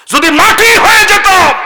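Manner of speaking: a sudden high wail of wishing; anguished outcry. Acted. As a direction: cry out in despair, pitched high. Acting the wrongdoers' cry of regret.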